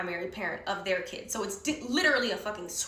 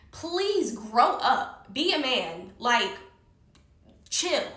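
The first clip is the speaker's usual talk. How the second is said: exasperated plea; much slower than usual. Retold or imitated. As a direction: drag it out, fed up with him. Acting out exasperation at Melvin.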